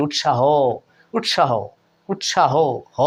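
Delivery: উৎসাহ said as ut-sha-ho, ending in an open o; sounded final vowel. Shown as a demonstration. Teacher repeating for students, final ho clearly sounded. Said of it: "হয়ের অ পর্যন্ত কিন্তু যায় উচ্চারণ".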